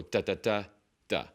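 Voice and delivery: a run of DAs, then a gap before the last "da"; wrong rhythm. Shown as a demonstration. Teacher giving another wrong example, broken rhythm. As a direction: stall before the final "da". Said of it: "It's not da".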